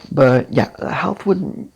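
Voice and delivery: hoarse, losing voice. Real, not acted. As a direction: voice giving out. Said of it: "Now I'm losing my voice".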